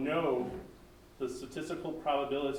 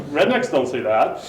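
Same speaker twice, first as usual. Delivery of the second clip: voiced language model; 12 dB louder than usual. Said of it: "and the language model's like".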